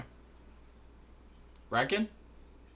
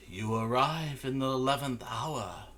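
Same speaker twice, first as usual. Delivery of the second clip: lightly voiced, somewhat higher figure; Yola's voice; 4 semitones higher than usual. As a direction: intone it like an omen. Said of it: "Yola says".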